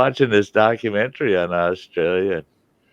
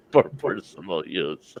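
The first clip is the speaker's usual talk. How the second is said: laughing, slow and softer; amused echo; 5 dB quieter, slower than usual. Real, not acted. Listener echoing his friend's punchline, laughing softly. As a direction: repeat it slowly through a chuckle.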